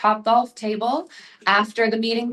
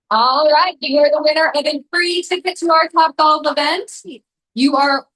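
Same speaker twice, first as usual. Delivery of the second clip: higher and louder winner reveal; excited announcement; 6 semitones higher, 5 dB louder than usual. Real, not acted. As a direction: cheer out the winner's name.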